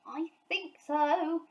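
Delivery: winded bear after a fall; breathless from the tumble; gasped. A narrator's reading. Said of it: "gasped Paddington".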